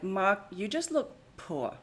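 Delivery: a light put-on Anna Delvey accent, slow and haughty; lightly voiced snob looking down on him. Imitating Anna Delvey for the viewers in a light put-on accent. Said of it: "That's my accent".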